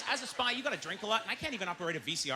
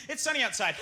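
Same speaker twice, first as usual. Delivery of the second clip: mock laugh; 5 semitones higher than usual. Shown as a demonstration. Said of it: "literally the same as going".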